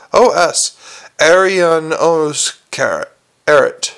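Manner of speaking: consonants dropped, gaping mouth; open-mouthed gargoyle. Acted. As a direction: speak without closing lips.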